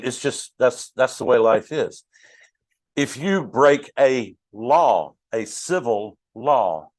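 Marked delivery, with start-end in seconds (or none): 3.0-6.9 slowed down, each word spaced out; slow suspenseful setup; slow build-up. Shown as a demonstration. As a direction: draw it out to set up the punchline. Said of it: "you ready for it?".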